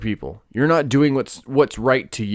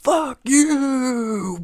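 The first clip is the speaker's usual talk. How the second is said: crying out high, drawn out; anguished cry; 11 semitones higher than usual. Acted. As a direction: wail it like a curse flung at the sky. Crying out a curse.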